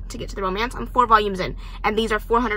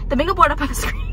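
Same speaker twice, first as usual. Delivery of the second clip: laughing; 7 semitones higher, 5 dB louder, faster than usual. Real, not acted. Flustered after five minutes of chaos.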